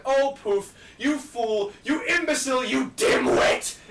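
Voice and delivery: high shouted self-scolding; nervous breakdown rant. Retold or imitated. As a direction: rant at yourself, losing it. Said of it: "having a nervous breakdown and ranting".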